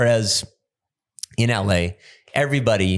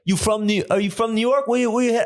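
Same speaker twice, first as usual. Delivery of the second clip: high mock flight attendant voice, much higher; 11 semitones higher, faster than usual. Retelling the flight attendant's question, high mock voice. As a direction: pitch up to play the nosy flight attendant. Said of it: "one of the flight attendants was like".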